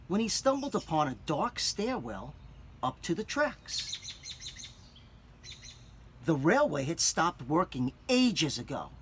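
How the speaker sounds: put-on clear, expressive read-aloud for children; story narration. A narrator's reading. Teacher reads picture book aloud.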